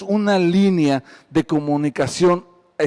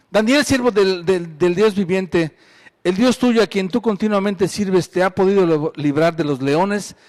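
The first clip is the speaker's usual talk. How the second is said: louder, higher anxious call; king calling out; 5 semitones higher, 6 dB louder than usual. Acted. King calls to Daniel in the den, loud and anxious.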